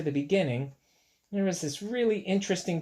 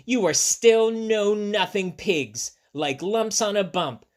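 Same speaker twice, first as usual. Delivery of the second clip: scolding; 5 semitones higher, slower than usual. Acted. Girl scolds pigs in story.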